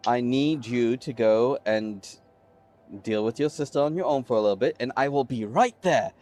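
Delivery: kindly uncle calming his niece, lightly voiced; sweet uncle. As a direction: soften it like a doting uncle. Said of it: "he smiles the sweetest smile at this little girl".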